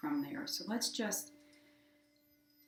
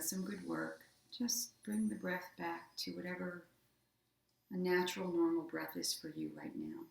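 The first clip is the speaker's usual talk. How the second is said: even, unhurried meditation voice with long pauses; guided meditation. Acted. Yoga teacher guiding listeners through body relaxation, guided meditation. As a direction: guide them gently into rest, leaving space between phrases.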